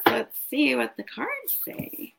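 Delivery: slow whisper over the cards. Real, not acted. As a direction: hush it while drawing cards. Drawing cards, murmuring to herself.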